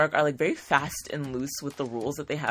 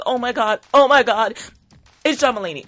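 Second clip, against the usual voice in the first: higher, breathless oh my God, getting louder; starstruck excitement; 6 semitones higher, 7 dB louder than usual. Retold or imitated. Retelling spotting her idol John Mulaney, excited and higher.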